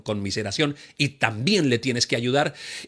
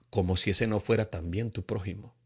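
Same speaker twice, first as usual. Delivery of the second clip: unvoiced hushed whisper; 6 semitones lower, 6 dB quieter than usual. Holy Spirit speaks to the conscience, whispered. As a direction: breathe it like a conscience.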